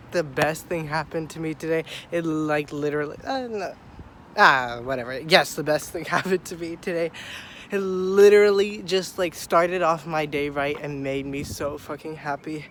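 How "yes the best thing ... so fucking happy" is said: sick, congested voice; talking with a cold; stuffy nose. Real, not acted. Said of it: "I'm sorry I sound like this".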